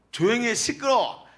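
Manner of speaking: high, loud mock telling-off; playful shushing of a noisy child; mock scolding. Shown as a demonstration. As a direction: snap at a noisy kid for laughs. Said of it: "경상도 사투리로".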